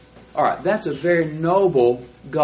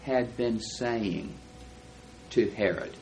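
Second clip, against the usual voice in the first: slow, drawn out; 4 dB quieter, much slower than usual. Shown as a demonstration. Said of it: "a moving picture in the past".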